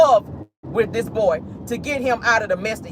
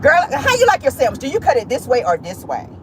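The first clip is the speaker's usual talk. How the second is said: put-on gossipy girlfriend; 4 semitones higher than usual. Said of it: "you come out talking like that".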